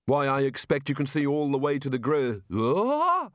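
chatty remark breaking into a high yelp; sudden alarm. Acted. Rincewind tottering at the battlements, cut off by a rising cry. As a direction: break off mid-word, voice shooting up. Rincewind nearly falls over the edge.

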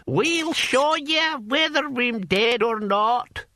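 put-on high, slow cackling old man. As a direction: cackle it out like a gleeful old barbarian. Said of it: "cackled Hamish".

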